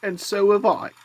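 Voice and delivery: put-on a boy jumping in keenly; eager cry. A narrator's reading. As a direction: Peter eagerly joining in. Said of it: "cried Peter".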